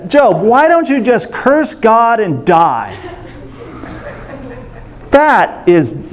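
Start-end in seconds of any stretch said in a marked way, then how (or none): 0.1-3.0 wife's voice. Retold or imitated. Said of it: "His wife, bless her, says".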